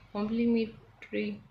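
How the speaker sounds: complementary said slowly, each syllable drawn out; slow careful correction. Shown as a demonstration. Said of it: "no, sorry". (complementary को धीरे-धीरे, साफ़ साफ़ बोलें)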